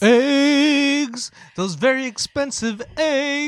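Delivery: loud, high exclamation; excited outcry. Real, not acted. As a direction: shout it out in mock outrage. Outcry about egg prices.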